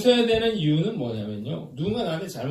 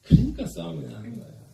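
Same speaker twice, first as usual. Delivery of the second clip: ordinary talk, nothing marked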